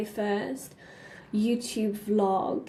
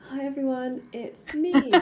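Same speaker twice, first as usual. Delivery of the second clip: higher-pitched mock vlog greeting, louder at the end; retold nervous vlog intro; 3 semitones higher, 5 dB louder than usual. Retelling a first vlog on the train, mock nervous greeting. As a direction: act out your own jittery hello to camera. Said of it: "I was, like, shaking on the train, being like".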